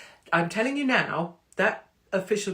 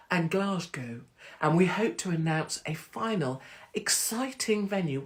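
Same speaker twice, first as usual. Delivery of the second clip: BBC newsreader voice. Pretend. Comedian reading her tour news to fans, mock BBC newsreader. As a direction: read it like a BBC teleprompter autocue. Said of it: "Let me try and do my teleprompter voice".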